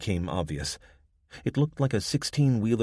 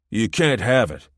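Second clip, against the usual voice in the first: put-on sulky, louder protest like a spoiled child; petulant; 3 semitones higher, 8 dB louder than usual. Man in the car refusing to give up the car, petulant protest. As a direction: whine it like a stubborn kid. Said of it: "Mitchell said petulantly".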